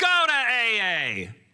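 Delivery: very high, very slow, booming heroic superhero voice. Retelling what a woman said as she leaned in, superhero voice at superhero volume. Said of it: "in a superhero voice, at superhero volume".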